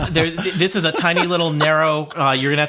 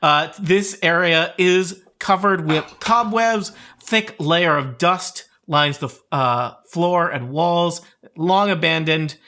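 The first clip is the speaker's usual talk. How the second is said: scene-setting narration; slower than usual. A narrator's reading. GM sets the scene.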